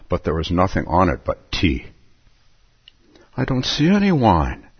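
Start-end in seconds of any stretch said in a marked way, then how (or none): 3.3-4.7 higher Alice voice, lightly; a hint of young Alice; Alice remarking. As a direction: point it out as Alice. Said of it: "she remarked".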